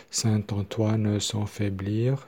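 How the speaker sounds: slowly, syllable by syllable; measured teaching pace; slow syllable-timed demo. Shown as a demonstration. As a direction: space out each syllable evenly. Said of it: "ça fait sept syllabes".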